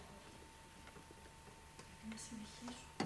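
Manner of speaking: urgent whispered push. Acted. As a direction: whisper it close. Whispered urging. (ψίθυρος)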